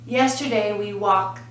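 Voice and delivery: "walked" as "walk" plus a separated "t"; final T sound. Shown as a demonstration. Teacher repeating the model sentence, separated "t" on "walked". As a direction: detach the crisp "t" at the end of "walked". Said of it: "but the sound is walk".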